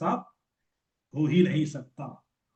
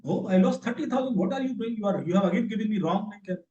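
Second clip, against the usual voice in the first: mock upset girl; 5 semitones higher than usual. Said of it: "She again called back".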